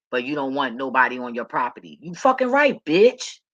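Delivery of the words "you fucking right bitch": high, loud, defiant shout at the neighbor. Real, not acted. Woman yelling back at her bossy neighbor, defiant shout. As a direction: yell it back, full of defiance.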